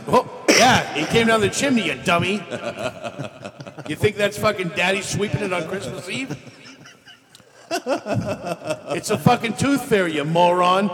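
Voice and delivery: scornful parent voice; mocking mom.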